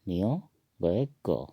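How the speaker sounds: "नियो गोएगो" one word at a time; Assamese pronunciation. Shown as a demonstration. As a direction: say "नियो", pause, then "गोएगो". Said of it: "इसको असमिया में कहेंगे".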